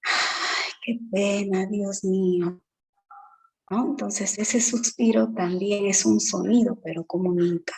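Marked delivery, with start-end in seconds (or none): 0.0-2.6 sighing lament. Shown as a demonstration. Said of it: "O cuando dicen".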